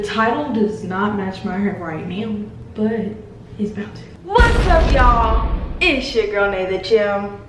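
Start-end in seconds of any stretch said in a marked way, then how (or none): 4.2-7.4 called-out greeting. Real, not acted. Vlogger greets viewers at the top, called-out greeting. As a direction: call out "what's up", then ease into the intro. First take of channel greeting.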